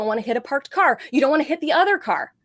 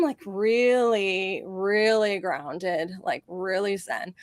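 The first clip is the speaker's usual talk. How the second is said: very slow, lower, softer mock serenity; mock zen calm; 4 semitones lower, 3 dB quieter, much slower than usual. Real, not acted. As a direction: float into fake enlightened calm. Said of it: "like Gandhi after a big meal".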